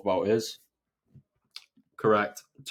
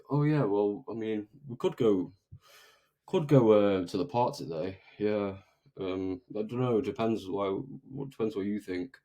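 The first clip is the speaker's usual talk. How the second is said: mumbling, trailing off, softer and hesitant; unenthusiastic friend; 3 dB quieter than usual. Retold or imitated. Friend half-heartedly suggesting the park, flat and unsure. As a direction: sound like you don't really care about going. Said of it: "if you're gonna talk like this".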